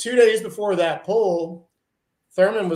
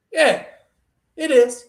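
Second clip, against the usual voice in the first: Junior's shrug; 3 semitones higher than usual. Retold or imitated. Junior's casual reply, retold.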